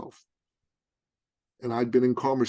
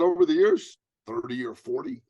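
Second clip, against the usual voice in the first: lightly voiced coach; 2 semitones higher, 5 dB louder than usual. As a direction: toss it off casually. Coach's retold casual answer.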